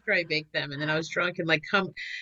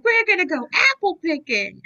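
mock cheerful reveal; 8 semitones higher, 3 dB louder than usual. Revealing the surprise.

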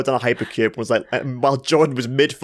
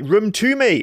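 mock high insistent ask; 11 semitones higher, 3 dB louder, slower than usual. Retold asking staff for room.

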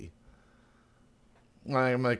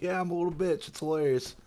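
mock self-deprecating pirate; 8 semitones higher than usual. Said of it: "It's like".

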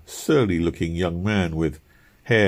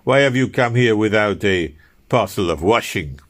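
fussy scolding; 2 semitones higher, 4 dB louder than usual. Acted. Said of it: "he exclaimed fussily".

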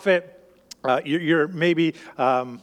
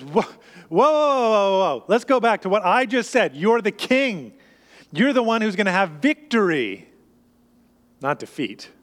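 alarmed protest; 2 semitones higher than usual. Acted. Peter protesting Jesus' death prediction.

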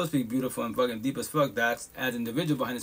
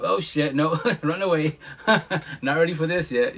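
laughing mock panic; 3 semitones higher, 4 dB louder than usual. Retold panic at close people.

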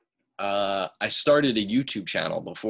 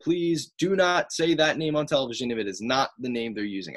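higher-pitched, insistent retold plea; emphatically clear; 4 semitones higher than usual. Wrestler instructing the commentator about his name, trying to be very clear. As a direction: re-enact spelling it out for someone. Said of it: "I tried to be so clear".

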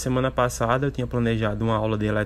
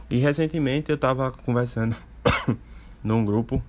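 coughing mid-sentence; a cough breaking into the words; coughing fit. Real, not acted. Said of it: "tô com uma tosse terrível". (tossindo no meio da frase)

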